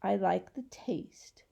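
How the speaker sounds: whispered around a thumb; thumb in mouth. Acted. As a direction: mumble past your thumb, whispering. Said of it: "why are you sucking your thumb".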